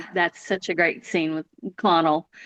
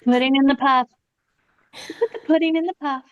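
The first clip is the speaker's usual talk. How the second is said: delighted repeat; 5 semitones higher than usual. Shown as a demonstration. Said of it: "incorporate that into my daily language".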